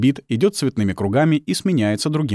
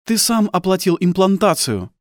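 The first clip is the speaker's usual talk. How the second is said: accusing wife; 10 semitones higher, 4 dB louder than usual. Acted. Wife accuses husband in quarrel.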